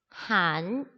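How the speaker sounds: 한 rising in second tone. Shown as a demonstration. Teacher reads the remaining syllable, 한 in rising second tone. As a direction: lift 한 upward at the end. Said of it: "이성으로 읽어주시면 돼요".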